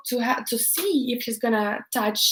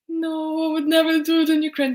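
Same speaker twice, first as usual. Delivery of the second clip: defensive; 6 semitones higher, faster than usual. Retold or imitated. Quick defensive answer to police.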